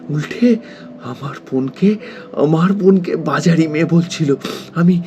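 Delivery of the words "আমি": high, loud, hurt indignation; wounded fury, pitch jumping up; anguished outrage. Acted. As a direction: burst out, outraged for a slandered sister. Outraged at insults to dead sister.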